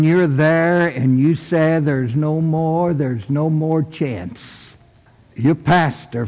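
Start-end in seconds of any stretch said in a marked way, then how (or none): 1.8-4.4 slow, sinking hopelessness; mild despair. Acted. Someone in the ditch of failure, mildly despairing. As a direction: let the words sink, softer on the repeat. Voices someone at the end of hope.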